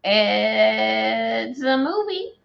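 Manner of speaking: slow, flat deadpan. Real, not acted. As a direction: drag it out unimpressed. Deadpan reply to praise.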